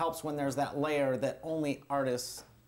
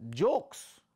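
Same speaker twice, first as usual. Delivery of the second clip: puzzled Arab elder; 7 semitones higher, 3 dB louder, much slower than usual. Retold or imitated. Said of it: "they're like".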